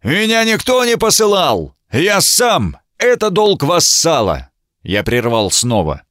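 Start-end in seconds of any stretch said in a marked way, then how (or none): 0.0-4.5 оскорблённо ревёт, гораздо выше; яростно отмести обвинение, на самом верху голоса; оскорблённый рёв. A narrator's reading. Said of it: "Всадник проревел оскорблённо". (обиженный рыцарь ревёт, что пришёл сам, по долгу вассала)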